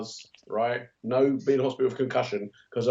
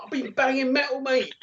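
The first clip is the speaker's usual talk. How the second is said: much higher, proud hammed-up boast; blacksmith boast; 13 semitones higher than usual. The blacksmith brags to the cake decorator, hammed-up boast. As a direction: brag about the forge like a tough smith. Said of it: "I'm like".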